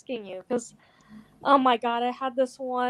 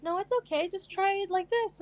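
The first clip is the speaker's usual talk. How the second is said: retold reassurance, higher pitched; gentle reassurance; 7 semitones higher, 4 dB quieter than usual. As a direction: lightly coax a nervous partner in a higher voice. Reassuring an insecure date, retold.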